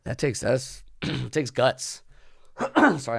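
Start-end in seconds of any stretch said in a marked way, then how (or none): 0.0-3.0 throat catching mid-sentence; clearing a choked throat; choking. Real, not acted. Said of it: "I'm, like, choking to death over here".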